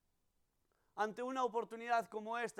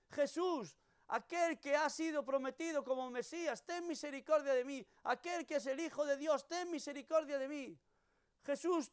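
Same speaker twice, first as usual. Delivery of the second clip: raised, higher pleading cry for mercy; crying out to Jesus; 4 semitones higher than usual. Retold or imitated. Blind Bartimeo calling to passing Jesus, pleading cry. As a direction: beggar calling out over the crowd. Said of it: "que gritaba".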